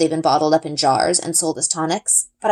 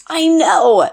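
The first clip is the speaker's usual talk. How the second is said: loud, bright burst of I know; excited girl's exclaim; 6 semitones higher, 6 dB louder than usual. A narrator's reading. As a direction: blurt it out, thrilled. Excited exclaim over dragon.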